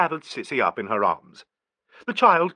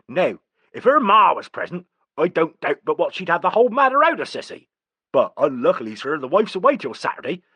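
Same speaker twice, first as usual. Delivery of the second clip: a country gardener's voice, raised and bluff; rustic gardener; 5 semitones higher, 4 dB louder than usual. A narrator's reading. Gardener explaining to the gentleman, rustic and raised. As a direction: play the gardener, broad and raised.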